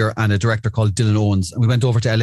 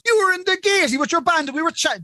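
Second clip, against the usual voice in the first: high, put-on Billy Bob voice. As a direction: play along with a made-up story. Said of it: "he goes".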